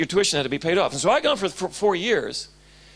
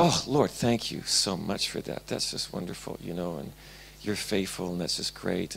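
half-whispered grateful prayer, much softer; hushed prayer; 11 semitones lower, 8 dB quieter than usual. Retold or imitated. Young student alone in the corridor thanking God, hushed whisper. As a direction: murmur thanks to the Lord under your breath.

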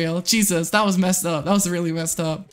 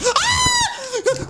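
sudden high scream of fright; real startled shriek. Real, not acted. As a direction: shriek at the jump scare. Scared by game creature.

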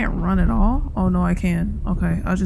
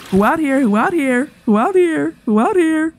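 louder, higher repeated call; 5 semitones higher, 4 dB louder than usual. Pretend. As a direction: bark it into the empty room. Loud calling in restroom.

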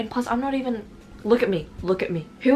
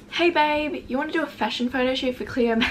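lightly hammed-up, higher-pitched texter; mock message voice; 5 semitones higher than usual. Vlogger reads the girl's photo shoot pitch aloud, mock message voice. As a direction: put on a higher voice for her message. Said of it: "This is what she said".

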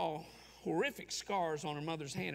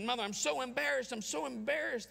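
higher-pitched, upset child's plea, lightly acted; retold tearful child; 6 semitones higher than usual. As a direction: imitate an embarrassed, crying child without real sobs. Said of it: "crying almost unstoppably".

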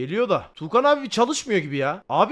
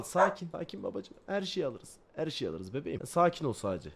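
softer, calming chat down; soothing; 5 semitones lower, 10 dB quieter than usual. Real, not acted. Streamer calming excited chat, softly soothing. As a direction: settle them gently.

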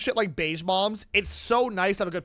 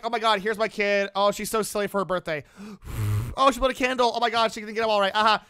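gushing parent; faster than usual. Acted. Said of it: "it's one thing to be like".

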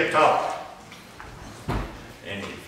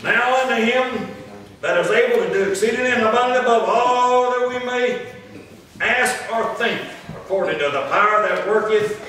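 raised, stretched pulpit declamation; scripture read aloud; 4 semitones higher than usual. Real, not acted. Preacher reading Ephesians to the congregation, raised declamation. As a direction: build the verse as solemn praise.

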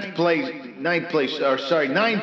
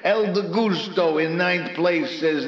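ordinary talk, nothing marked

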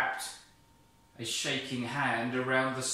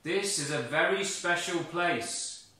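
a lightly voiced solemn God; 5 semitones higher, 5 dB louder than usual. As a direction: announce it gently but grandly. God speaks from the bush.

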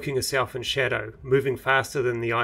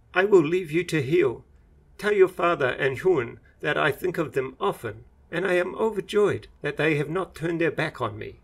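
lightly raised, heartfelt parting words; a hint of a moved old master saying goodbye; Rin's farewell; 5 semitones higher than usual. Rin leaving the injured monk, lightly voiced and heartfelt.

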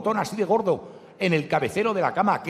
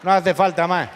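clipped Murcian speech; 4 dB louder, slower than usual. Retold or imitated. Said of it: "hablar con un murciano va a ser que".

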